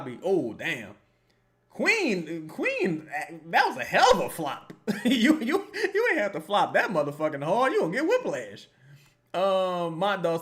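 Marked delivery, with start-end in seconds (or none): 1.7-8.7 loud, laughing mockery; real laughing yell at the flop; laughing disbelief. Real, not acted. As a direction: crack up at the flop while yelling at her. Mocking a player's flop.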